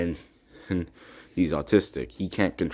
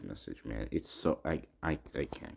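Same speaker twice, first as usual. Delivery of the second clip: choked up; 7 semitones lower, 11 dB quieter than usual. Real, not acted. Upset, trailing off at end.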